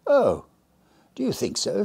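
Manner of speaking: husky whisper. Acted. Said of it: "in a husky whisper".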